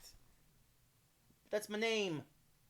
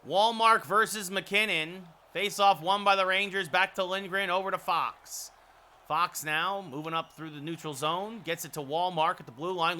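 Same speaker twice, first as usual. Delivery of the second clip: steady broadcast call of the puck's movement; hockey play-by-play. Pretend. Streamer calls Rangers face-off and rush, steady play-by-play. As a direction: call the face-off and each pass like an announcer.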